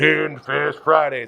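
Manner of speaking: big put-on intro voice, imitated. Retelling a friend's show intro: imitating Andy's big intro voice. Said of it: "It's the big voice".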